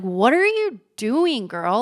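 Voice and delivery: put-on what are you doing girl, disbelief; incredulous self-scolding. Scolding herself in the moment, high incredulous drawl. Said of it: "my reaction at the time".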